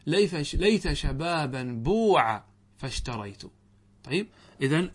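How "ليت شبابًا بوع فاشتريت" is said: slow recital with بوع said as buuʿa; reciting verse example. Shown as a demonstration. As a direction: cite the verse slowly, stressing بوع. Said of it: "ليت وهل ينفع شيئًا".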